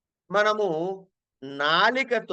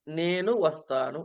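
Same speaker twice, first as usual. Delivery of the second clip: "నేను వస్తాను" said evenly at the speaker's usual pitch; level even tone; 4 semitones lower than usual. Shown as a demonstration. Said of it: "సమానంగా అంటున్నావు". ("నేను వస్తాను" సమానంగా పలకండి)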